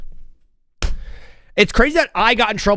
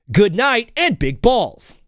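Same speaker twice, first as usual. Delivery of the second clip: slow, drawn-out mock announcer sign-off; 7 semitones higher, much slower than usual. Streamer trying out a new sign-off, mock announcer voice. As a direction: try it out as his own closing line, lightly hammed. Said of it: "what could be my sign off".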